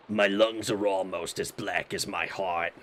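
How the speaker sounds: low raspy chain smoker voice; smoker's rasp. Acted. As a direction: gravel it out like a heavy smoker. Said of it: "Cinna sounds like a chain smoker".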